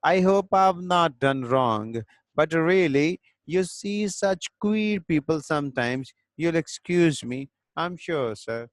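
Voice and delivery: reads the English line slowly, word by word; slow play reading. A narrator's reading. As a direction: spell out each line for the class, unhurried. Teacher reads a play aloud.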